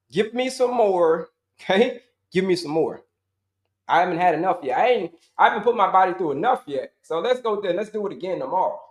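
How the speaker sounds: hammed-up glutton craving punishment; mock glutton. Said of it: "we're just like".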